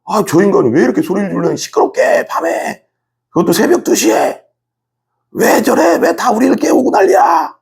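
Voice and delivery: irritated, high-pitched outburst climbing to a strained shout; acted neighbour's complaint. Neighbour woken at two complains about the noise, angry rising shout. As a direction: play a fed-up neighbour losing it at the racket. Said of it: "이렇게 생각할 수 있어요".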